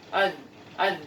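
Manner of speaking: "Az" with the tongue between the teeth; voiced th sound; Arabic dhal sound; Arabic zal. Shown as a demonstration. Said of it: "lebih ke bawah ya".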